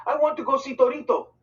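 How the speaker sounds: high and loud, insistent; a boy demanding to see his sick brother; angry demand. A narrator's reading. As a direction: demand it outright. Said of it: "I asked angrily".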